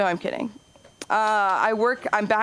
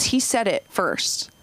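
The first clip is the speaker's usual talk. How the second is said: imitating a kid; slower than usual. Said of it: "And he goes".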